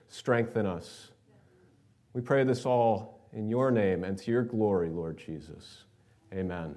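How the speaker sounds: earnest, measured public prayer; leading prayer. Real, not acted. Pastor asking God to bless the word, earnest prayer.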